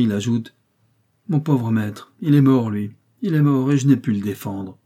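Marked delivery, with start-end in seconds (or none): 1.3-4.8 a touch of tenderness, mourning his dead master; tender. Acted. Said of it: "d'une voix attendrie". (avec une légère tendresse attristée)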